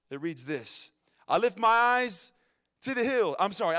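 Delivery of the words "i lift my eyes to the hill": scripture reading. Real, not acted. Preacher reading a psalm to the congregation, proclaimed scripture reading.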